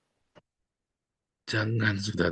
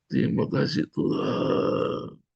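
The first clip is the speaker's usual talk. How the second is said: whispered prayer; slower than usual. Shown as a demonstration. Models whispered prayer while crying.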